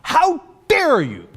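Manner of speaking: mocking high-pitched how dare you; shrill mock outrage. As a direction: squeal it back in exaggerated offence. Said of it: "the Israelis and the U S says".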